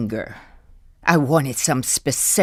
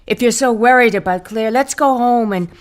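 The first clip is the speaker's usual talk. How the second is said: louder, fast and pushing; pressing urgency; 4 semitones higher, 5 dB louder, faster than usual. Acted. Wife pressing Carl to go home, louder and fast. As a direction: hurry him along firmly.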